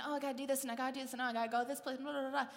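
mock mental list, run together; running through chores. Person in bed listing the day's tasks, rattled off. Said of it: "we start going over and going over".

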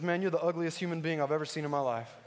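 lightly voiced parrot, casual and matter-of-fact; an understated parrot delivering an insult; talking parrot. Parrot to a passing customer in the pet store, understated insult. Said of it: "the parrot looks at him and says".

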